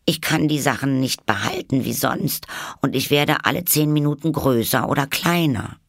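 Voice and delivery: put-on high, earnest girl's voice; Alice. A narrator's reading. Alice explains herself to the caterpillar. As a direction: plead to be understood.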